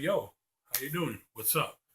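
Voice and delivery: relaxed street greeting in his own voice; casual real voice. Shown as a demonstration. Shows viewers his real everyday voice, relaxed and casual. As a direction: say it loose, like greeting a friend. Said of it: "the true, real me".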